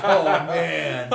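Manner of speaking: loud burst of real laughter; can't hold it in, howl with laughter; laughing hard. Real, not acted. Host cracking up at the guest's reply, loud laugh.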